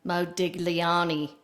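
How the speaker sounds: Modigliani in an Australian accent, low. Shown as a demonstration. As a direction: put on an Australian accent for the name. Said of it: "If you were from Australia, it might sound like".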